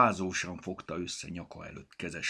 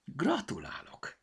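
appreciative congratulations; 9 semitones higher, slower than usual. A narrator's reading. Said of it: "elismerően biccentett".

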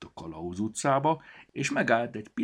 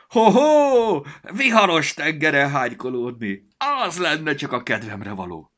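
high, loud gleeful creature voice; delighted storybook; 9 semitones higher, 12 dB louder than usual. A narrator's reading. Storybook relishing a stormy sea, high and loud. Book character voice.

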